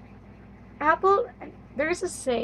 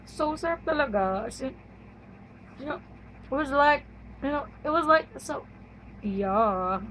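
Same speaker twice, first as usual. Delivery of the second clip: chatty socialite; 3 semitones higher than usual. Pretend. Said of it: "The social".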